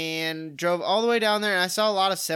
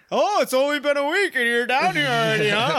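teasing voice; 4 semitones higher than usual. Retold or imitated. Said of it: "I got so much crap for that".

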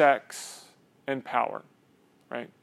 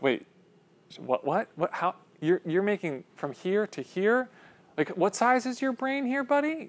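incredulous; 5 semitones higher, 5 dB quieter than usual. Pretend. Incredulous reaction acted.

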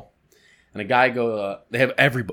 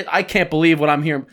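mock outrage, raised voice; mimicked indignant yell; 3 semitones higher, 5 dB louder than usual. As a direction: imitate an exasperated caller yelling on the phone. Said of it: "yelling at me over the phone".

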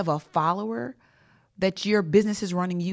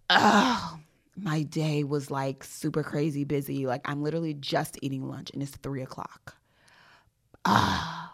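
groan, then low, weary bragging; feigned exhaustion; 3 semitones lower than usual. Acted. Answering a friend about her day, feigned exhaustion. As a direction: play up the worn-out busy worker. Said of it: "I was pretending like".

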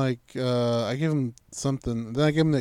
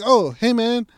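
high, louder retold call; hailing a stranger; 8 semitones higher, 7 dB louder, slower than usual. Driver calling to a guard by the flag, hailing him. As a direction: pitch it up to call across to someone.

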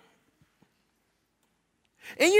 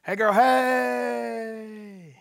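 sly snake; much slower than usual. Retold or imitated. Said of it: "and the snake comes".

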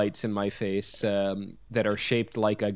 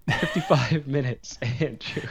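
words broken up by laughter; laughing. Real, not acted. Host teasing his co-host about cut footage, laughing.

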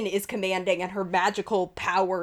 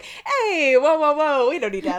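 easygoing charmer; 5 semitones higher, 5 dB louder than usual. Retold or imitated. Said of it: "can just kinda be like".

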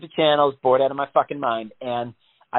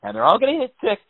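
a hint of mock panic; 4 semitones higher than usual. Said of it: "panic attack moment".

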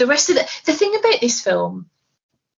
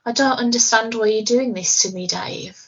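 Hal's calm eerie voice. Retold or imitated. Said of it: "wonderfully calm, eerie voice is saying things like".

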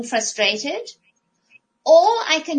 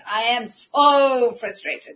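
drawn out slowly, louder, laughing through it; mock-whine "I am so frustrated" with a laugh; hammed-up frustrated complaint; slow exasperated moan; 4 dB louder, slower than usual. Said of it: "I kept telling everybody".

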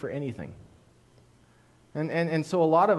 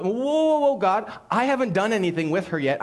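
startled protest; 5 semitones higher, 3 dB louder than usual. Retold or imitated. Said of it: "And Abimelech goes".

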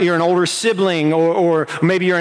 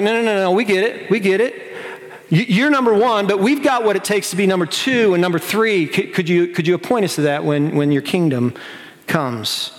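eager pleading; 2 semitones higher than usual. Retold or imitated. Disciples eager bargaining.

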